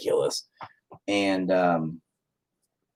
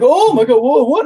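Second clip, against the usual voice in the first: high, loud mock alarm; startled staff reaction; 7 dB louder than usual. Hospital staff reacting to screaming father, loud high alarm. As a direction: act out flustered shock, pitched way up.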